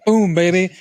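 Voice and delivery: high, loud triumphant whoop; hammed-up victory shout; excited cheer. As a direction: cheer it out big. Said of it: "he does the thing".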